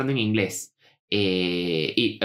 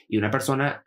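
normal talking voice

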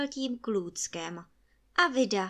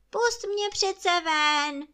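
louder, higher pleading cry; pitiful cry; 10 semitones higher, 7 dB louder, slower than usual. A narrator's reading. Spirit begs the boy again, louder desperate wail. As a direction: push the plea harder, almost a shout. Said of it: "duch přežalostně volal".

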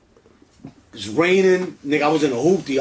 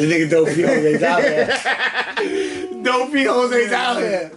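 mocking white ladies; 3 semitones higher, much slower than usual. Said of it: "They was like".

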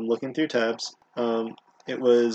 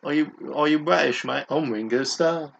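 put-on weak British accent; 3 semitones higher than usual. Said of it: "you don't do it".

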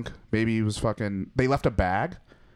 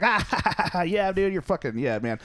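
much higher, forced mock laugh of an intruder; fake laugh; 8 semitones higher than usual. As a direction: butt in with a hammed-up fake laugh. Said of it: "sit down and go like".

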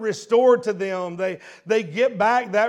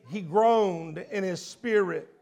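ordinary talk

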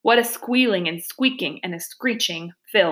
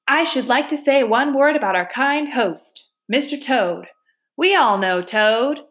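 lightly voiced after-dinner speaker, pitched up; banquet speechmaker; 5 semitones higher than usual. Weasel toasting Toad to the banquet, lightly voiced speechmaker. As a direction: give a mock toast to the host.

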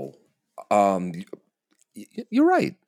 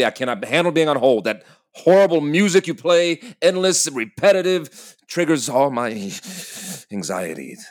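higher, agitated rant; anxious rant; 5 semitones higher than usual. Acted. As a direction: spill out the anxiety. Anxious rant about hold music.

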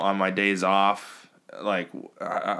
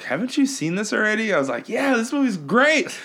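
high quoted exchange; 11 semitones higher than usual. Retold or imitated.

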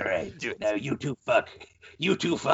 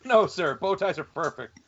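Walt Disney voice. Pretend. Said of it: "That's his, uh, raspy smoker's voice".

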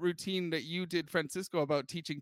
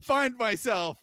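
louder, slow, grand declaration; grand announcement; 5 semitones higher, 5 dB louder, slower than usual. Retold or imitated. Young man telling his parents, mock grand. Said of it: "told my parents".

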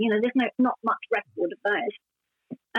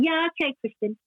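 joking; 3 semitones higher than usual. Retold or imitated. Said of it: "I sort of said jokingly".

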